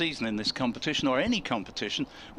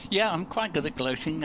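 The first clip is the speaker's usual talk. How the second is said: laughing; 2 semitones higher than usual. Real, not acted. Jokes about gloating, laughing.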